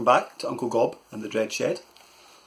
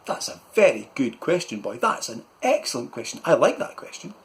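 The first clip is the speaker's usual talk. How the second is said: a bit louder pompous uncle; uncle's voice; 2 semitones higher, 3 dB louder than usual. Acted. Uncle flattering Malcolm's question, a touch louder. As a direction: puff up with praise. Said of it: "Uncle Gob said".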